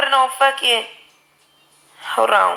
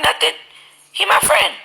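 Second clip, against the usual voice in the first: put-on much higher, light child's voice for the daughter; imitating her young daughter; 10 semitones higher than usual. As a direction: play the little girl, unbothered. Daughter quoted in retold story.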